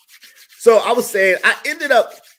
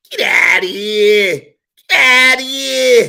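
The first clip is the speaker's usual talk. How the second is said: dismissive; 4 semitones higher, 6 dB louder, slower than usual. Real, not acted. Dismissing the flatterers.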